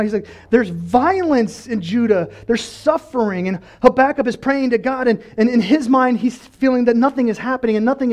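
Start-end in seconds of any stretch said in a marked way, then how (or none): 0.5-3.5 slow, drawn-out lament; crying out. Acted. Habakkuk crying out about Judah's suffering, slow emphatic lament. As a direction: stretch each phrase in protest. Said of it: "He's crying out".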